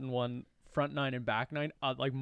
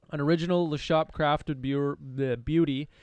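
ad read; 4 dB louder than usual. Acted. Reads beer label like an ad.

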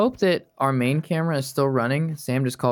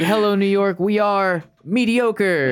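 slow, raised rock-frontman voice; mock rock star announcement; 5 semitones higher, slower than usual. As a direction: drawl it like a stadium rock singer. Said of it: "We're like".

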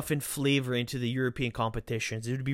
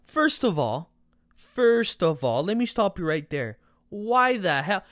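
incredulous; 4 semitones higher, 4 dB louder than usual. Real, not acted. Mocking a podcast guest's pick.

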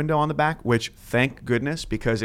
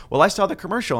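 higher puzzled caller voice; confused caller; 8 semitones higher, faster than usual. Retold or imitated. Caller insists to the agent, higher puzzled. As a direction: sound sure of yourself, higher. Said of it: "They said".

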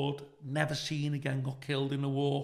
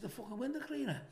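higher, laughing it out; amused he can't believe it; chuckling at the absurd request; laughing disbelief; 8 semitones higher, 7 dB quieter than usual. Real, not acted. Amused at window cleaner fan.

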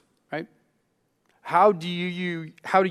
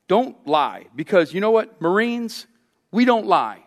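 louder, higher stern Marine drill voice; drill sergeant; 4 semitones higher, 4 dB louder than usual. Retold or imitated. Preacher mimics Marine-style rule on lying, stern louder drill voice. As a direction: bark it like a Marine instructor. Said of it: "we couch the power of our words like this".

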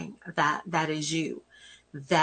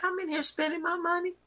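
indignant customer; 12 semitones higher, 4 dB quieter than usual. Retold or imitated. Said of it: "and you're like".

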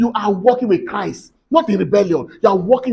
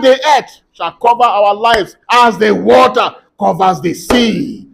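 forceful prayer declaration; 4 dB louder than usual. Real, not acted. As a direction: proclaim blessings with rising force over the congregation. Declares blessings over congregation.

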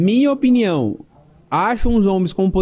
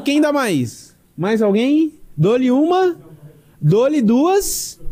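auctioneer; 4 semitones higher, much slower than usual. Pretend. Bidding up gift card value.

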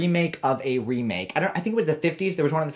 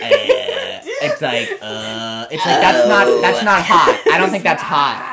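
laughing while talking, loud; 7 dB louder, slower than usual. Real, not acted. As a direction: giggle through the words. Laughing through her own joke.

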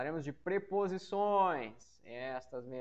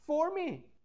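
"For me" much higher and louder; emphatic for me; 11 semitones higher, 6 dB louder than usual. Shown as a demonstration. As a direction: throw "For me" up high and loud.

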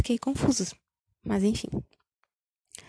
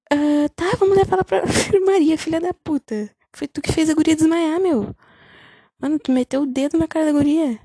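higher, louder indignant outburst with a laugh; outraged rant; 6 semitones higher, 5 dB louder than usual. Real, not acted. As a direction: blast the principal for it. Outraged at the principal's hypocrisy. (indignada, alto e agudo)

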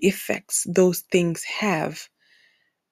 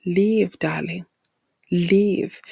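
tender plea; much slower than usual. Acted.

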